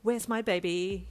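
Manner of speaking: loud, eager squeal. A narrator's reading. Uncle bursting in looking for the baby, excited squeal. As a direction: flap about and squeal it. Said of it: "he squealed with flapping arms".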